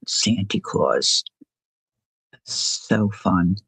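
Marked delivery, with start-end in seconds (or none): 0.1-1.2 slow, whispered "Santy" with an ee ending; grandma's Santy Claus. Retold or imitated. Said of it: "how my grandmother would say it".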